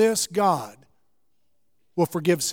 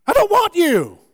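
higher, whiny fickle voice; preacher mocking an imagined sulky God, higher; mock petulant God; 8 semitones higher, 5 dB louder than usual. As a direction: pout like a fickle deity.

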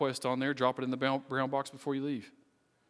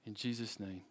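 measured, earnest prayer with long pauses; closing prayer. Real, not acted. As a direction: pray aloud for the congregation, phrase by phrase.

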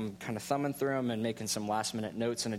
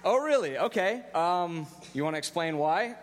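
high, louder, wide-eyed challenge; retold astonished "Oh, really?", much higher and louder; mock surprise; 5 semitones higher, 3 dB louder than usual. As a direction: feign polite amazement and dare him to explain. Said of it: "but I said".

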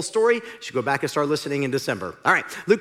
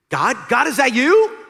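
surprised hope; 9 semitones higher, 9 dB louder than usual. Acted. Jack answers heavenly voice.

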